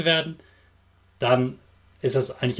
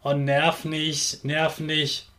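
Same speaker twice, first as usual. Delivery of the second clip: whiny; much slower than usual. Retold or imitated. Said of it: "dass Kinder sagen".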